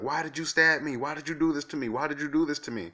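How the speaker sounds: high, loud imitation of a hysterical scream; retold screaming. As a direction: shriek it like the girl with the knife did. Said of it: "she started screaming and, and, and yelling".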